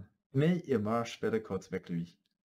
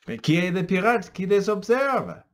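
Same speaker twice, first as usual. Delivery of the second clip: suspense; 9 semitones higher, 9 dB louder than usual. A narrator's reading. Cliffhanger question to listeners.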